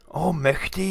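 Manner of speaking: high, loud acted fright; high-pitched storybook alarm; alarmed owl. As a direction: gasp out a startled oath. Owl sees the Gruffalo.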